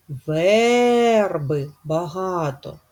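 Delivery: верби said slowly, with the first syllable stressed. Shown as a demonstration. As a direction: draw out the ВЕ in верби. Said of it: "І чітко чуємо звук Е". (повільно, наголос на ВЕРби)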